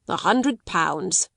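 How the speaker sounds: succinct. Acted. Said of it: "remarked succinctly".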